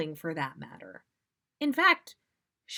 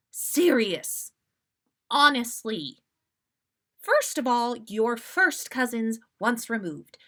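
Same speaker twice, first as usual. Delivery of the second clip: louder, sharp rebuke; exasperated scolding; 3 semitones higher, 4 dB louder than usual. Acted. Molly scolding self-centred Sirius, exasperated. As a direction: scold him like a cross mother.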